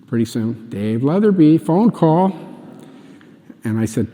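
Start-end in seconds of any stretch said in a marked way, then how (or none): 0.7-2.3 lightly imitated paging call, lifting at the end; retold loudspeaker page. Secretary paging an employee to the phone, imitated loudspeaker call. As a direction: page someone over the office loudspeaker, lightly mimicked. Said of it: "calls over the loudspeaker".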